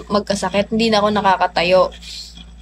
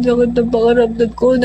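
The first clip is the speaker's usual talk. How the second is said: near tears. Retold or imitated. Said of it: "naiiyak ako".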